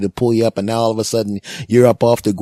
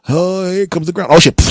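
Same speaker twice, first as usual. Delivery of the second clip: dread of impact; 9 semitones higher, 6 dB louder than usual. Acted. Dad about to hit ground.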